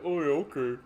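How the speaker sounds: hammed-up grudging acceptance; mock resigned. Citizens settling for a holiday, sarcastic resignation. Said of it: "we're all just supposed to be like".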